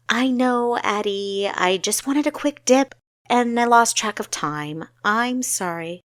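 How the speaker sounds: a sheepish younger sister owning up; young Kessa voice. Acted. Kessa apologizing to her sister.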